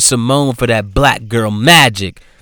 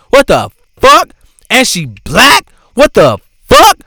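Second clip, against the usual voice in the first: higher, louder mock rant of an upset white mom; mother scolding her daughter on the drive home, mock yelling; imitating an angry mom; 7 semitones higher, 3 dB louder than usual. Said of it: "She was yelling at her daughter".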